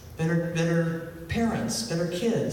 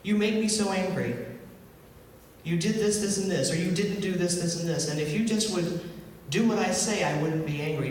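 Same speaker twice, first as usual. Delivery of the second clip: blaming abuser; 3 semitones higher than usual. Retold or imitated. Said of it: "the person who is doing the violence says".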